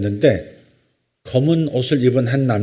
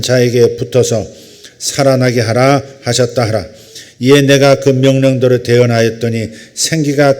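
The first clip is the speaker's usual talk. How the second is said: loud, steady scripture recitation; scripture reading; 7 dB louder than usual. Acted. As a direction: read the passage out firmly and evenly to a congregation. Reads scripture aloud.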